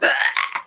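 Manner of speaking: voiceless guttural growl of release; frustrated ugh. Retold or imitated. Coach re-enacting letting frustration out on a dog walk, growled ugh. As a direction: let out a rough, re-enacted "ugh". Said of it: "so I just went".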